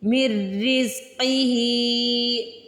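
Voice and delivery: रिज़्क़िही with a thick, heavy क़; recited slowly, heavy क़; heavy qaf. Shown as a demonstration. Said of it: "ऑफ को यहाँ पे मोटा पढ़ना है".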